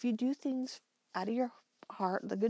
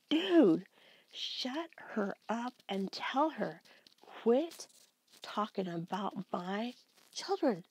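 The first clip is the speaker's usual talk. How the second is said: yelling at the screen. Retold or imitated. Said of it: "literally screaming at the screen".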